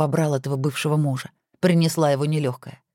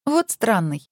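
higher, a light amazed exclamation; 6 semitones higher, slower than usual. Acted. Wife marvelling at her husband's odd question, mildly amazed. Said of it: "изумилась Александра".

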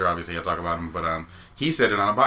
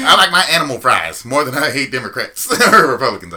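laughing; 5 semitones higher, 10 dB louder than usual. Real, not acted.

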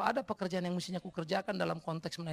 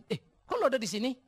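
kaget; 7 semitones higher, 5 dB louder than usual. Retold or imitated. Terkejut bertemu orang dari kejadian lalu.

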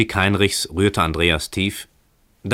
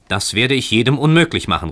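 higher, louder defiant call; 6 semitones higher, 5 dB louder than usual. A narrator's reading. Heinrich refusing the stranger a way up, raised calling voice. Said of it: "rief Heinrich".

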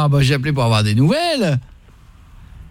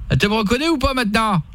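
put-on higher-pitched regional French accent; local French accent; 5 semitones higher than usual. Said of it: "je reprends l'accent normal".

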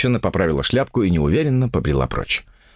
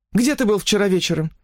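much higher, questioning woman's voice; suspicious woman; 11 semitones higher than usual. Acted. Mistress questioning her lover about last night. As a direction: demand it, pitched high.

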